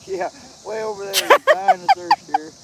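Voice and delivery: very high, loud squealing tease; mock high squeal. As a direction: shriek it like a cartoon. Teasing about dying of thirst.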